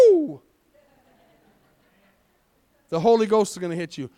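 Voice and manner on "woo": high, sudden "woo"; a quick high whoop of realization; imitated woo. Preacher imitates a driver suddenly getting it, high whoop. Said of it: "you're gonna go".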